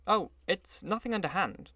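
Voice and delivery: high-pitched, lightly acted reassurance; reassuring. A narrator's reading. Gatsby answers his suspicious companion, assuring him. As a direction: lift the voice to brush the worry away. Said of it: "he assured me".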